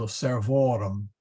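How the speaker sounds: "servorum" with the accent on VO; teacher demonstrating "servorum", stressed on the second syllable; stress on second-to-last syllable. Shown as a demonstration. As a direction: lean on the long middle vowel of "servorum". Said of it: "still in the second syllable".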